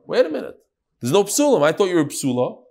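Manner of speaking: lightly acted husband's protest, starting high; a touch of a husband raising an objection; objecting husband. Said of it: "The husband could say".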